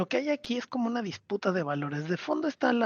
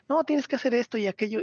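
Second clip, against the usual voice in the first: bossy mock yell; 4 semitones higher, faster than usual. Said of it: "le empieza a gritar".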